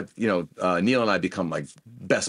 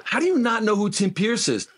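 much higher, laughing, can't believe it; teasing a friend who doesn't know a legend, laughing; laughing disbelief; 12 semitones higher than usual. Real, not acted. Incredulous at Neil not knowing.

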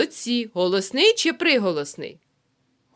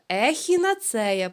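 plain. Shown as a demonstration. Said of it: "Повторили".

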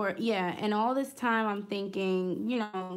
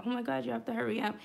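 rushed, higher mock panic; panicked urging; 4 semitones higher, much faster than usual. Retelling how she rushed her husband, fast panicked urging. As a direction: rattle it off fast like you're freaking out. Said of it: "I'm, like, freaking out".

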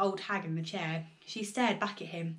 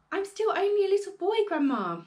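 put-on higher, louder, fast little boy; pleading boy; 10 semitones higher, 6 dB louder than usual. A narrator's reading. George pleads with Grandma, higher boy voice. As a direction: rush out a child's protest.

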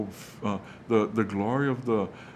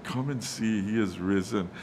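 calm angel. Retold or imitated. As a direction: say it calmly, with steady assurance. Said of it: "as excited or as calm as we can stay".

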